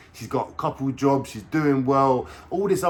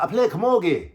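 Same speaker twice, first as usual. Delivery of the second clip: higher mock Irish; 8 semitones higher, 4 dB louder than usual. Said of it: "she's like".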